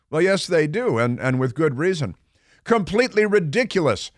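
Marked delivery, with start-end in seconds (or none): 2.6-4.1 "Completely ridiculous" in a higher, mocking imitation; mock Greta quote. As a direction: parody the activist, pitched up. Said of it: "Swedish activist Greta van Thunberg said".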